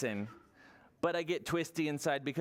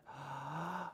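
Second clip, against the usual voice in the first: deep breath; 9 dB quieter than usual. Shown as a demonstration. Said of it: "Can you take a deep breath?".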